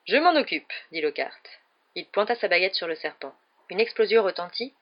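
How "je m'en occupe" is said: eager volunteering. A narrator's reading. Lockhart butts in to help.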